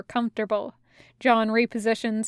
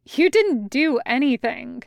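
amused; 2 semitones higher, 3 dB louder than usual. Acted.

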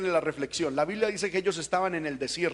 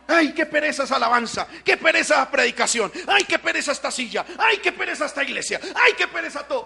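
higher, louder mock lazy moan; lazy whine; 6 semitones higher, 4 dB louder than usual. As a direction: drag out each ay like a bored churchgoer. (quejido perezoso exagerado, más agudo y fuerte)

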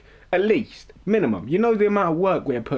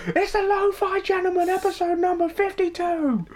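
big announcer voice. Acted. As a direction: sell it like a hype announcer. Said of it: "now I want a big".

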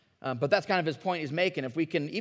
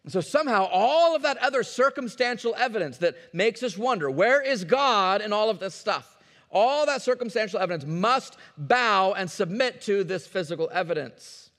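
louder, higher preaching climax; full-force preaching; 5 semitones higher, 6 dB louder than usual. Acted. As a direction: proclaim it over the congregation.

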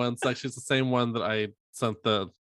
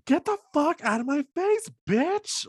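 much higher, a mild mock yell of the old scream; retold scream. Retelling screaming at a coworker at work, mild mock yell. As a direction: replay the yell, pitched up but not full volume. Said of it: "I just remember screaming".

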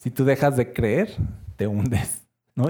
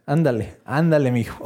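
gentle coaxing. Pretend. Jesus lifting Peter from the water, gentle and kind. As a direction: coax him up like a kind father.

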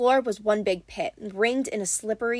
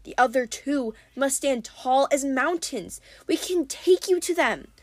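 Tyson hopeful; 4 semitones higher than usual. Acted. Tyson voiced by narrator.

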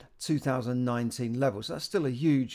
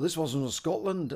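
a self-mocking attempt at a Scottish accent; bad Scottish accent; 4 semitones higher than usual. Mimicking a Scottish tourist overheard in London, bad Scottish accent. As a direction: throw in a weak Scottish accent. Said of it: "the bad Scottish accent there".

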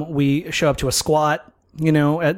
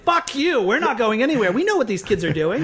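put-on grumpy old man; 6 semitones higher than usual. Voicing the grumpy old couple.

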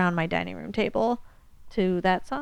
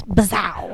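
jokey zap sound. Pretend. Jokey sound effect term.

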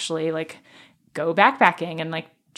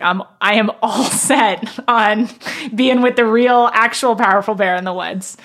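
mock eager; 3 semitones higher, 7 dB louder than usual. Real, not acted. Sarcastic eager bear claim.

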